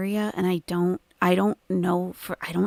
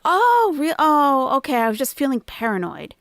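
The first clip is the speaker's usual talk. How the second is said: lightly acted startled friend, high and loud at first; a hint of a flustered girlfriend; mock high girl voice; 7 semitones higher, 5 dB louder than usual. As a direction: play her caught off guard, then settling. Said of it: "And she was like".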